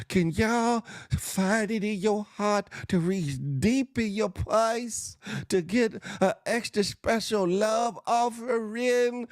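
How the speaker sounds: high, slow pleading preacher; milk the crowd like a preacher. Retold or imitated. Begging congregation for bail money.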